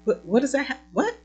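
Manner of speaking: playfully sassing Jesus, baffled; sassy confusion. Pretend. Preacher sassing Jesus over the gate, hand on hip. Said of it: "putting my hand on my hip".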